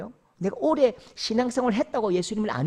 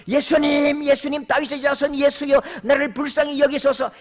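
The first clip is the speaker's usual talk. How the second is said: desperate cry; 4 semitones higher than usual. Acted. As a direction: cry out to Jesus for mercy. Blind man crying out to Jesus. (맹인의 간절한 외침)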